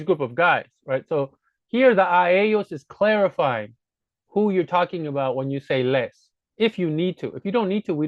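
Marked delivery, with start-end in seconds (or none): none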